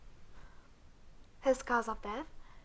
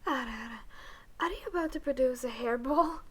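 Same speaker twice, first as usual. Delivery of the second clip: teasing; 4 dB louder, faster than usual. Acted. Teasing roleplay.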